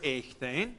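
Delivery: echtein, said slowly and low as a model word; Greek word said aloud. Shown as a demonstration. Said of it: "Here's our word".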